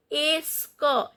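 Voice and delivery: "Est-ce que" said as "es-ko"; French sound demo. Shown as a demonstration. Teacher breaking down a French question, "Est-ce que" as "es-ko". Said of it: "T is not pronounced".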